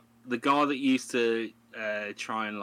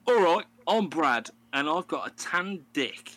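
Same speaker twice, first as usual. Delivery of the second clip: imitating reality show guy; 7 semitones higher, 5 dB louder than usual. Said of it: "he goes on there and he goes".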